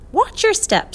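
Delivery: high, loud bird squawk; shrill little bird warning the children. A narrator's reading. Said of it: "squawked the wiffle bird".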